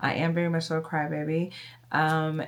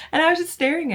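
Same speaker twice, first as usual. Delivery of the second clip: laughing; 10 semitones higher, 6 dB louder, much faster than usual. Real, not acted. Laughing while retelling.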